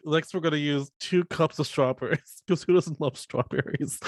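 giggling through the recipe; giggly cooking host. Retold or imitated. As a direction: laugh at your own line. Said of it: "she's like".

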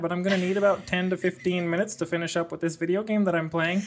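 breezy Canadian husband voice; Canadian accent to the wife. Acted. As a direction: talk to the wife in a lazy Canadian twang. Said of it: "this accent".

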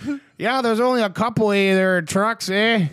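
lightly mocking Canadian accent. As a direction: play a polite Canadian leader. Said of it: "he go".

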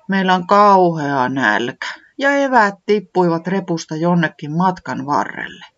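a hint of the high creature voice, glum; lightly voiced säämies. Säämies explaining the lost lunch to Tiputi, lightly voiced. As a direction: tell it a little sadly. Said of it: "säämies sanoi".

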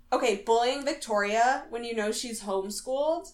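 lightly voiced scolding schoolteacher; a hint of prim reprimand; school marm. Kelly scolding the bullies, mild school marm imitation. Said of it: "like a school marm".

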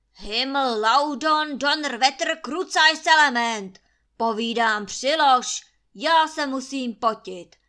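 angry cursing command. A narrator's reading. Landlord cursing in German at Kuba to stoke the fire, loud. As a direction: curse and order with a sneeze at the end. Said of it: "komanduje Trautenberg".

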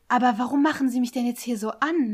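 "machen" stressed in loud protest; pointedly stressed. Retold or imitated. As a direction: retell "warum machen Sie mich" loud and emphatic. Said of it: "So richtig betont".

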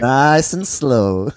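long, drawn-out steadying words; slow coaching. Real, not acted. Friend steadies a coughing man after choking, slow coaching. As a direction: stretch each word to slow their breathing.

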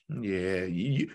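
slow, chuckling warning; laughing through a playful threat; laughing tease. Retold or imitated. Teasing the players, laughing.

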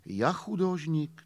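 slow, weighty recital of the line; measured Russian-flavoured poem reading. Acted. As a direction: declaim it slowly like a poet. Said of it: "odpověděl taky básní".

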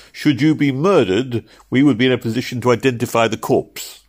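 cheerfully cold-blooded. A narrator's reading. Cook's clerk offering to identify the body, cheerfully cold-blooded. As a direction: announce it with cheerful detachment. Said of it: "said it so cheerfully and cold-bloodedly".

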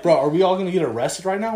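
retold panicked question, rushed; fast, mildly acted panic; freaking out. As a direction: fire it out in mock worry. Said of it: "he starts freaking out".

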